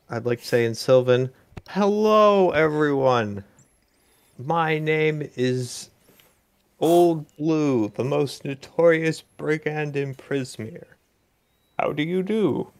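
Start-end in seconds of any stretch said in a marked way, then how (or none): 1.7-12.7 slightly raised, measured showman's greeting; grand self-introduction. Acted. Brigand introducing himself in Sylvan, mildly grand greeting. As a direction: announce yourself with a little flourish. Player introduces Blue to the creatures.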